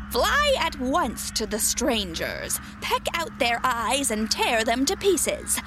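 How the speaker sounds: slow, menacing witch command. Acted. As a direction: order the crows slowly and coldly.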